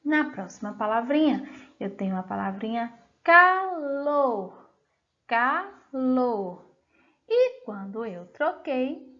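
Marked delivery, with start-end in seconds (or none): 3.2-4.7 "calor" split into ca and lor; careful dictation of "calor", each syllable held. Shown as a demonstration. Teacher sounding out word for pupils. 5.3-6.6 "calor" with a gap between ca and lor; measured dictation of "calor" by syllables. Shown as a demonstration. Teacher repeating the sounded-out word.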